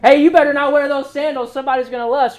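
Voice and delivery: hammed-up warning about sandals; mocking scold. Preacher mocks strict church folk, a hammed-up scold. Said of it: "I've made jokes about it before".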